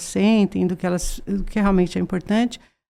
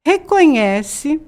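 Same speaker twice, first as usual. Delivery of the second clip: reconhece drawn out slowly, higher, louder, rising; stressed reconhece; 6 semitones higher, 4 dB louder, much slower than usual. Real, not acted. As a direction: lean hard on reconhece, slow and rising. Repeated for emphasis. (ênfase em reconhece, lenta e subindo)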